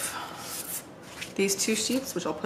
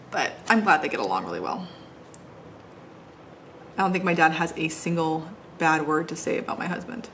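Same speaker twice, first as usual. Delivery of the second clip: ordinary talk, nothing marked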